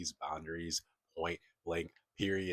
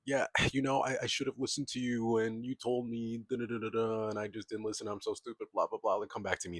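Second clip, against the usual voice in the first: whiny ex; 4 semitones higher than usual. Retold or imitated. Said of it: "your ex is gonna call you up".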